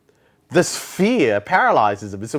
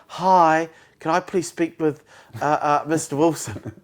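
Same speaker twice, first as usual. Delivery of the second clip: timid salesman. Retold or imitated. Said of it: "They don't sound like that".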